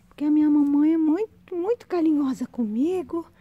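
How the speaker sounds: high, loud puppy voice begging for cuddles; dog's voice. Pretend. Voices the dog wanting affection.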